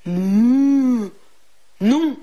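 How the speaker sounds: meuglement grave suivi d'un refus net; vache catégorique. A narrator's reading. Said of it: "répondit catégoriquement la vache". (meuglement de vache, puis non catégorique)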